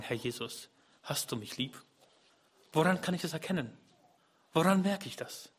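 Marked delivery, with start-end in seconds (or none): 0.0-1.8 soft, lonely plea to Jesus; quiet plea. Retold or imitated. Believer alone asking Jesus for love, soft plea. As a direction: ask it softly, almost to yourself. Lonely prayer voiced in sermon.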